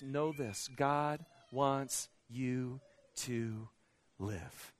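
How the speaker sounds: very slow, soft, low, each word weighed; slow, hushed and low; hushed emphasis. Acted. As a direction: let it land quietly on live. Key truth, slowed and hushed.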